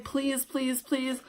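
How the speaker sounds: put-on softly begging the boyfriend; soft pleading. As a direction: beg softly. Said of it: "I was just like".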